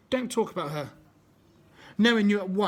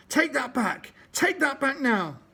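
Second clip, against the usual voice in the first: higher, louder furious demand; yelling; 7 semitones higher, 4 dB louder than usual. Acted. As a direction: yell it at him with fists flying.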